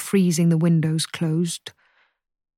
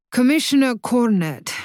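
higher and louder, firmly correcting his title; 5 semitones higher, 4 dB louder than usual. Acted. Cornet correcting father's introduction, firmly. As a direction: insist on the proper title. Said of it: "corrects the man".

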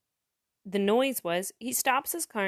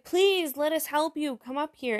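urgent, higher-pitched plea; pleading rescuers; 7 semitones higher than usual. Acted. Ship's crew to stranded man at sea, pleading. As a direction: beg him to accept help.

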